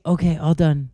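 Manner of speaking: lightly put-on masseuse voice; masseuse's quiet voice. Shown as a demonstration. Defending the impression to a friend, imitated masseuse voice. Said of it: "it was, like, a quiet voice".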